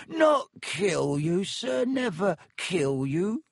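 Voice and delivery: high, slow, squeaky elf protest; drawn-out, high-pitched horrified elf; shocked house-elf. A narrator's reading.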